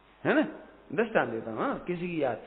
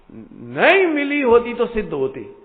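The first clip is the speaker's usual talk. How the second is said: louder, slow, weighty; forceful guru's answer; 5 semitones higher, 11 dB louder, slower than usual. Retold or imitated. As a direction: deliver the guru's reply like a thunderclap. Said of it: "गुरुदेव बोले". (ज़ोरदार, धीमा, गुरु का उत्तर)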